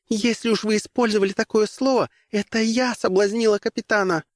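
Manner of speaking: put-on light high young woman's voice, earnest; Rosalyn's pleading voice. Rosalyn confessing to the commissar, high and earnest.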